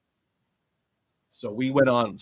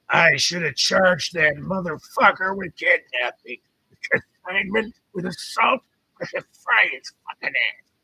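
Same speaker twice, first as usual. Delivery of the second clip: angry preacher rant; 8 semitones higher, 4 dB louder than usual. Acted. Angry cussing preacher in story.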